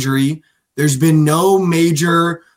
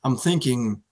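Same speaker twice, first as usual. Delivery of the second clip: lightly voiced schemer, drawn out; scheming front office exec; 2 semitones lower, 5 dB quieter, slower than usual. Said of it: "The front office is like".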